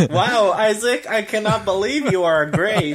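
high-pitched, hammed-up praise; weird mock awe. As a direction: gush oddly in pretend astonishment. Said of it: "the weirdest way I could have said that".

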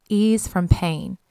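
"ease from pain" drawn out slowly with a falling end; slow, deliberate. Shown as a demonstration. Preacher repeating the definition slowly. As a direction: let each word land. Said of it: "let's look at this definition".

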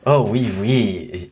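slow mock French oui oui; playful stab at French. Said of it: "maybe it was with a French accent".

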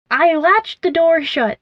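high, slow triumphant shout. A narrator's reading. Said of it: "they shouted".

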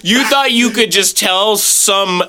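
slow, drawn-out fake scorn that breaks into laughter; hammed-up disgust at a fake ally; mock scolding. Teasing his friend about being an ally, in mock scorn.

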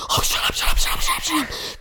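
urgent whisper; frantic whispered shut up; whispered hush. Retold or imitated. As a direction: hiss at him to shut up. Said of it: "I was like".

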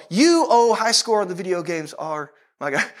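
mock devotion. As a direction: parody a solemn prayer to a trivial idol. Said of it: "I wonder how many of us would go".

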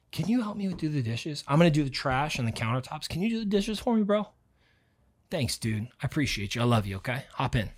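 soft, casual ask for a favour; soft friendly request. Acted. Asking Bobby for help with the dishes, soft friendly request.

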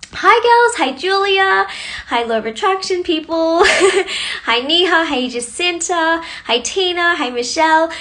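high, lively shout-outs to each name; excited greetings. Real, not acted. Host welcoming viewers by name, high and excited. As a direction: call out every name with a lift.

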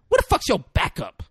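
high, loud challenge to the cops; suspicious woman. Retold or imitated. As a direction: jeer at the cop like her.

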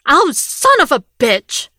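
loud, high curse of pain; pained yell. A narrator's reading. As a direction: yell as the gun cuts your hand. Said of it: "Rick yelled".

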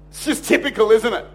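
imitating a cranky grumble; mild mock sulk with some bite. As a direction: grumble like a slighted colleague. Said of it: "he is angry and cranky".

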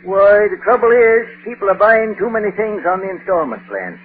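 put-on rural New England accent, dry and unhurried; a dry old New England farmer; New England rustic accent, deadpan. Titus Moody voice all lines.

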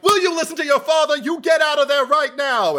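high, mock New England mom scolding the kid; a hint of a Massachusetts accent, ordering him out now. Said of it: "the New Englander kind of comes out".

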